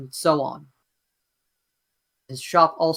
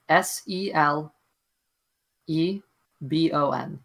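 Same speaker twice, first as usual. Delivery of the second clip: spelling it out. Shown as a demonstration. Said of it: "I need you to spell it again".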